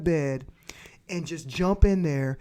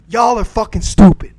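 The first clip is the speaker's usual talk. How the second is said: shout; 12 dB louder than usual. Real, not acted. Ranting at men with sex dolls.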